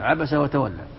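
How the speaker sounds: abasa joined to the next word; fatha linking عبس onward. Shown as a demonstration. Teacher showing connected recitation, fatha on عبس. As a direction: open عبس into وتولى. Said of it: "تفتحها".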